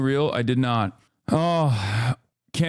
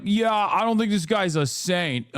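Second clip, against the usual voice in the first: slow, mildly mocking parody of the cohost; mocking wishy-washy quote; 5 semitones higher than usual. Mimicking the cohost's fence-sitting line, lightly mocking. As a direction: drawl it out to make it sound spineless. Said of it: "wishy-washy bullshit".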